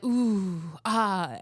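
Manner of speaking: mildly imitated rhythmic moans; understated mock wail; imitated pained moaning. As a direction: mimic a patient moaning to a beat. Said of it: "his wailing, his pain, his suffering".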